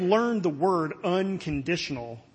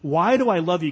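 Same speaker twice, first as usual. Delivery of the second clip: louder, stress on DO; emphatic question; 7 dB louder than usual. Shown as a demonstration. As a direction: press "do" in "Why do I love you?". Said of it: "is the key to Luke eighteen".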